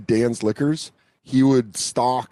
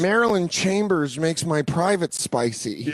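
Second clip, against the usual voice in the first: mock dopey kid; 6 semitones higher, slower than usual. Mocking young self.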